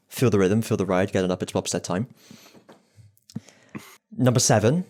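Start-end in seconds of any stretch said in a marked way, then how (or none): 4.2-4.8 bingo caller. Shown as a demonstration. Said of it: "I'm, like, doing bingo calling".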